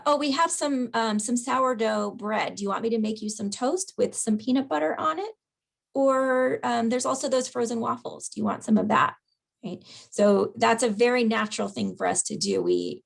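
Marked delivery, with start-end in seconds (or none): 0.1-9.2 chatty caregiver piling on choices; over-explaining the offer; rambling extra options. Shown as a demonstration. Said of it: "your natural inclination is to say".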